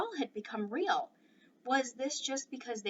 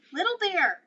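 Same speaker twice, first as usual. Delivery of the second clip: loud, higher call of the name; shouting; 9 semitones higher, 12 dB louder than usual. Acted. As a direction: call him out in excitement. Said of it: "he shouted".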